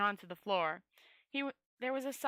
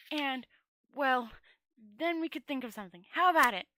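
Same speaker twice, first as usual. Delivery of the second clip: nervous wizard voice; 4 semitones higher than usual. Acted. Rincewind voiced higher.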